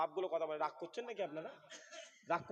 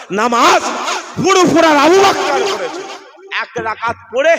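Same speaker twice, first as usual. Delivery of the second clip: shouted sermon, much higher and louder; preaching at full force; 11 semitones higher, 24 dB louder than usual. Acted. Preacher thundering to the gathering about prayer. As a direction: bellow the story to the crowd.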